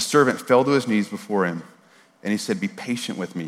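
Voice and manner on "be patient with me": hushed, lowered plea; understated, quiet begging. A narrator's reading. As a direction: read the plea softly and low. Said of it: "he begged".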